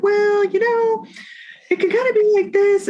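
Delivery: very high, squeaky hedging; hammed-up unsure voice, far above your own; doubtful voice. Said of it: "it's the doubt language stuff".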